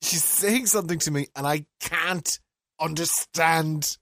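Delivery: mildly exasperated, pitch climbing steadily; wound up. Retold or imitated. Man retelling being stuck with his cleaner, increasingly wound up. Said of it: "I was getting so wound up".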